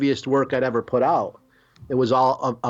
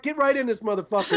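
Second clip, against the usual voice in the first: hyped doorman; 7 semitones higher than usual. Retold or imitated. Imitating the blues club doorman.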